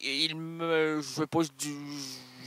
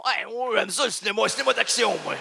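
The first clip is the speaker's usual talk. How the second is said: higher, louder keen answer; lightly voiced eager guy; 5 semitones higher, 4 dB louder, faster than usual. The young man answering about cinema, mildly high and keen. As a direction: gush about action movies like a dimwit.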